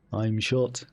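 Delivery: imitated Liverpudlian accent; Liverpool accent. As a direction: say it as a mock Liverpudlian. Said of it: "Liverpoolian accent".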